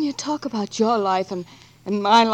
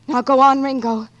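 louder, pressing him to ride; urgent loud send-off; urgent command; 6 dB louder than usual. Acted. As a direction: drive him off with force. Sending Ringo off to ride.

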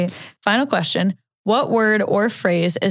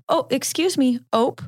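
light ope demo; 5 semitones higher than usual. Shown as a demonstration. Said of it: "If anyone is not familiar with ope".

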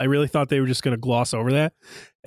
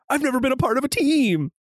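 wistful confession; 11 semitones higher than usual. Retold or imitated. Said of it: "They're like".

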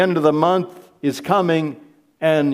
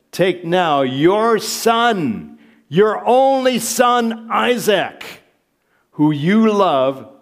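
slow, raised-voice scripture reading; loud, weighty divine order; solemn raised command; 6 semitones higher, 4 dB louder, slower than usual. Acted. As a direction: proclaim it as God's command, drawing out each phrase. Reads God's command to Abraham aloud.

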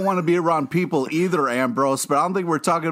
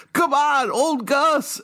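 acted cheer; 11 semitones higher, slower than usual. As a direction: call it out like a cheerful buddy. Acted cheer of character Gus.

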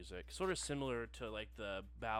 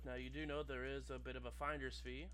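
customer service voice; 2 semitones higher, 12 dB louder than usual. Acted. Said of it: "familiar customer service voice".

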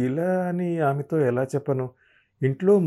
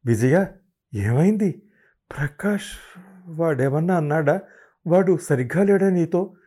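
higher, worried probing questions; mother-in-law's worried, hesitant asking; hesitant worry; 6 semitones higher, 4 dB louder than usual. Acted. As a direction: ask reluctantly but anxiously. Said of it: "అడగలేక అడిగినట్లు అడిగారు".

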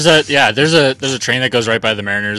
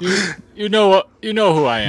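higher, theatrical wrestler persona; Rusev impression; 9 semitones higher than usual. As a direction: puff up like a proud heel wrestler. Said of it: "it is I, Rusev".

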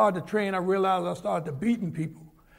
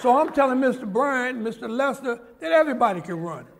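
higher and louder, still chuckling; laughing; 5 semitones higher, 5 dB louder than usual. Real, not acted. Man laughing as he tells the detectives everyone can run. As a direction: let the laugh carry the words.

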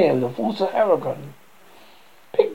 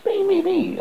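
clamore impaziente. Acted. Pigs clamour for a slice.

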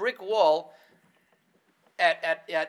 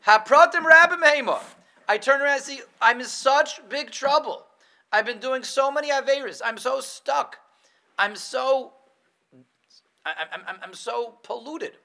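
higher, louder panicked cry; 7 semitones higher, 8 dB louder than usual. Acted. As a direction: cry out as if caught in trouble. Acting a panicked penitent.

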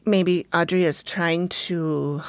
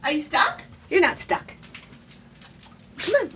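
talking to a dog; 10 semitones higher, 4 dB quieter than usual. Real, not acted. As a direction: reassure the stuck puppy. Coaxing dog out.

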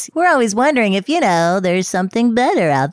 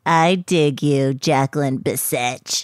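low romantic; 6 semitones lower, slower than usual. Pretend. Role-played romantic line.

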